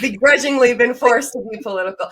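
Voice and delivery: said through real laughter; laughing. Real, not acted. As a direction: laugh while you say it. Laughing after host's joke.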